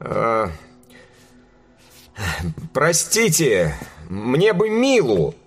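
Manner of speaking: hesitant, slow and strained; forced out timidly. Acted. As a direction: squeeze the words out, unsure. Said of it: "Наконец выдавил он".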